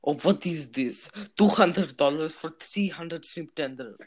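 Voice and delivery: put-on Russian waiter accent. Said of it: "not being racist with this accent".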